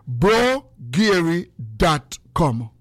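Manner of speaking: slow, stretched site name call; stretched-out website plug; drawn-out plug. Real, not acted. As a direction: announce the website slowly, like a jingle. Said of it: "drawn-out site name call".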